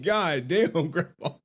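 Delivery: high, laughing retold disbelief; amused mock-wounded exclamation; amazed dismay. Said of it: "It's like".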